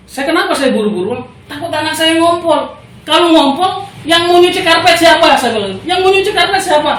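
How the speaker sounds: worked-up rant about the wet carpet; retold exasperated rant. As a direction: pile on the absurdity, voice climbing.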